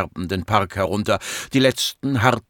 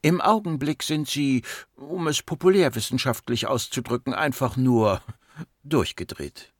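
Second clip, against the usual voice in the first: composed doctor, starting high, dropping on the verdict; cool psychiatrist; 4 semitones higher than usual. Acted. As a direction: give a cool, unhurried diagnosis. Voices the patient psychiatrist. (kühl analysierende Psychiaterin)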